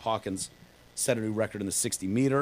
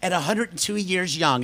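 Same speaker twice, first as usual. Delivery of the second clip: mock news cliché; 8 semitones higher than usual. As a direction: ham up the tired headline cliché. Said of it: "do we have to say".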